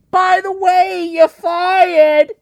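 high, breezy sing-song voice; casual waitress. Retold or imitated. Waitress firing him from the car, breezy and high. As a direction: toss it off lightly, way up high. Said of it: "she's just like".

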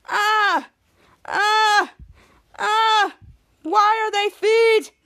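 high, drawn-out wails; hammed-up horrified crying out; mock horror. Retold man horrified by his feet.

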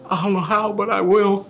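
earnest reply. Retold or imitated. Answering the Lord.

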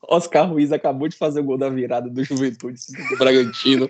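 laughing through the news; chuckling while reporting. Real, not acted. Laughing while reading goal news.

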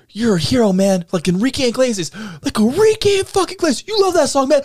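high, fast, loud mock bro rant; douchey ski patrol guy. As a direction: ham up a cocky jock taunting. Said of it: "he's like".

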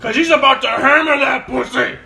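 high, loud hyped pitch; infomercial. Pretend. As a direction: hype it like a TV salesman.

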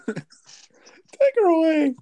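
slow, breathy whisper of the line; whispered mock order. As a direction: whisper it slowly like a sneaky villain. Friends mimic the villain line.

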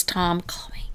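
breathy playful whisper to a crush. Pretend. Teasing Tom Hiddleston through the mic, whispered. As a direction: whisper it like a secret invitation.

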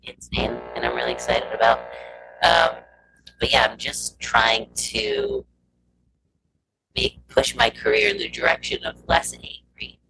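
glitchy robotic audio. Real, not acted. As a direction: voice breaking up like a robot. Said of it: "your voice went real robotic real quick".

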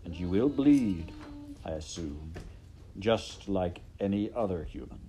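measured, politely menacing villain; a hint of a smooth threatening rat; lightly voiced scheming rat. Roscuro threatening the princess with Midge's knife, lightly menacing.

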